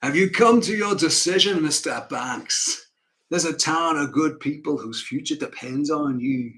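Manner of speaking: rough attempt at an honest northerner's accent. Northern client asks banker for a loan, earnest northern accent. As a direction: plead the town's case in an uncertain northern accent. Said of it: "an honest northerner who presents his argument".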